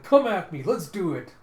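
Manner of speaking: rowdy mock challenge; acted fighting challenge. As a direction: goad an opponent to brawl. Character challenges friend to fight.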